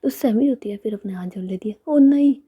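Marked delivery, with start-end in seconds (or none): 1.9-2.3 a loud, high "ओ नहीं" with hands folded; loud pleading refusal. Retold or imitated. सैमी हाथ जोड़कर रितिका से कहती है, ज़ोर से मना करते हुए. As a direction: beg off loudly, half joking.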